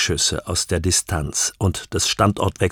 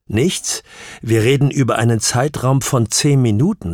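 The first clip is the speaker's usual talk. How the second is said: doubting, higher-pitched questioning; incredulous challenge; 4 semitones higher, 3 dB louder than usual. Acted. Questioner challenging the witness over missing minutes, incredulous. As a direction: echo it as a rising question, then press on.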